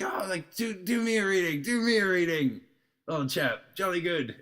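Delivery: high mock posh British accent; plummy English toff begging for a reading. British tourist asking for a reading, in a high mock British accent. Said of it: "this whole pack of British people".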